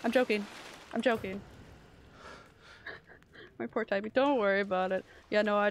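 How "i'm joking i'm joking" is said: frantic pleading. Real, not acted. Chased, pleading.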